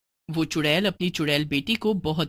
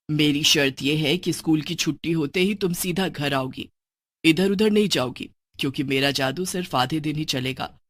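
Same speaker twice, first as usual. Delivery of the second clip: lightly voiced witch mother; 4 semitones lower than usual.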